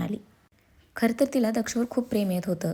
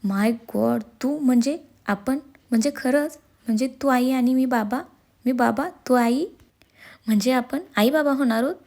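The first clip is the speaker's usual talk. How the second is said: higher, louder, stammering joy; louder and higher, overwhelmed with happiness; overjoyed disbelief; 4 semitones higher, 4 dB louder than usual. Acted. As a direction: gush it out, can't believe the news. Learns he will be father.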